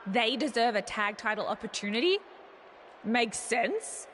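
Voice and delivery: sarcastic. Acted. Champion mocking challengers' title request, sarcastic. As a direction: pretend to follow their logic, with understated scorn. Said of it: "That was sarcasm".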